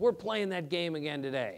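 ordinary talk

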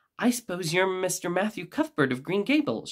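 clear, sweet voice. She stands and greets the man coming up to her, in a clear, sweet voice. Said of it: "in a particularly clear, sweet voice".

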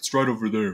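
put-on very deep, soft voice. Retelling how they answered someone's question, in a very deep voice. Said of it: "in a very deep voice".

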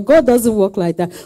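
plain

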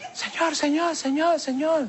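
tiny, small, high little voice. Telling a story, voicing a tiny voice that called out on the street at night. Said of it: "oí una vocecita que me dijo".

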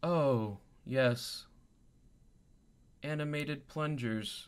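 machine-like, robotic voice. Narrating what the players hear from a familiar source, in a robotic voice. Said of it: "in that same familiar robotic type voice".

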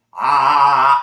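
very loud, constricted, strained 'ah'. Demonstrating how some singers grab in the throat: constricted strained 'ah'. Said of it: "they're going to grab as they do the sword swallow. So they'll go".

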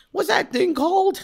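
put-on very high-pitched, forgetful-sounding old man voice. A show host joking about his own bad memory, in a forgetful old man voice. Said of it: "an aging old dude going".

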